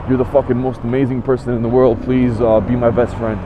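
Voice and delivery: low, dry mock admiration; deadpan, pissed-off flattery; sarcastic praise. Buyer mocking the bragging seller, sarcastic. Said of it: "I was so freaking pissed".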